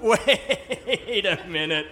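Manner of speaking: drawn-out, stuttering mock "wait"; slow, exaggerated retold objection; incredulous interruption. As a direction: stretch it out in comic disbelief. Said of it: "And I went".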